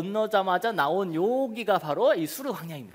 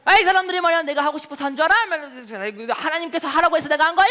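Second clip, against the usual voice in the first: higher, louder hypothetical quarrel; mock angry retort; 5 semitones higher, 6 dB louder, faster than usual. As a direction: snap back at the crowd in pretend anger. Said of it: "똑같이 싸웠을까요?".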